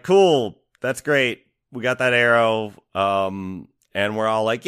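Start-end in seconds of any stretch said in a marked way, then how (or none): 0.0-2.7 mock-upbeat approval, easing down; retold cheer. Game character approving the arrow, retold cheerily. Retelling her cheery reaction.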